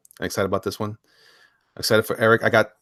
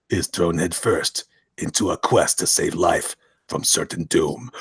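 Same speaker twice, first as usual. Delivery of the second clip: synopsis narration; 3 semitones lower than usual. Acted. Reads comic synopsis.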